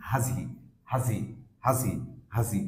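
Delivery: "হাজি" as /həzi/, one word; weak form, linked. Shown as a demonstration. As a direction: glue reduced has onto he in "হাজি". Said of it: "উইক sound হচ্ছে". ("হাজি" এক শব্দের মতো জুড়ে)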